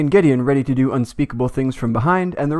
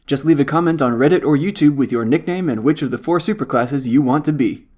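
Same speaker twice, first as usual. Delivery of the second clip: upbeat commercial announcer, fast fine print; mock ad read. Recruiting viewers as soldiers, upbeat mock ad voice. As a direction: sell it like a TV ad.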